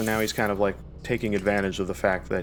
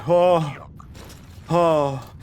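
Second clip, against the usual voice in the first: startled gasp; 6 semitones higher, 3 dB louder than usual. Real, not acted. Close call in the game.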